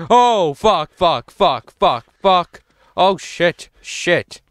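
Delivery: loud frightened cursing; panicked swearing. Real, not acted. Monster appears suddenly.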